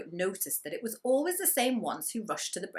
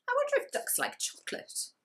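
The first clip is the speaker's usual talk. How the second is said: high, breathy wondering pig voice; Gumboot's musing. Acted. Gumboot musing to himself about the ducks, high and hushed. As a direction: think it aloud in a high little voice. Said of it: "thought Gumboot".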